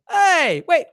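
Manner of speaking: imitating the comedian working the room; comic's crowd-work voice. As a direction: call out to the crowd like a club comic. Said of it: "he's like".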